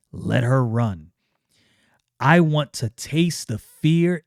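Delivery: slow, hungry menace; slow villain. Acted. Magus Numite gloats to Yaira, slow and hungry. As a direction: savour every word. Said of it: "And he says".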